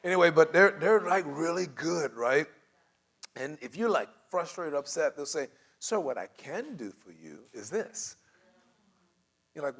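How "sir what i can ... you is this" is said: slow, softer, lifted patient offer; placating, measured agent voice; positive customer-service spin. Acted. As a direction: service agent calmly offering what's possible. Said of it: "putting a very positive spin on".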